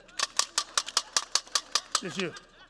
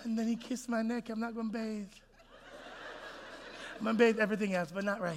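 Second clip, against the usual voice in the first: swooning woman; 2 semitones higher, 7 dB quieter than usual. Retold or imitated. Preacher mimicking a woman after a kiss, hushed and dreamy. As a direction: breathe it out, lost in the memory. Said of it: "You, ladies".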